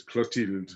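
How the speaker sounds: Clotilde with a plain T, not th, said slowly. Shown as a demonstration. Teacher slowing down the name for the learner. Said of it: "the T H isn't th as in normal".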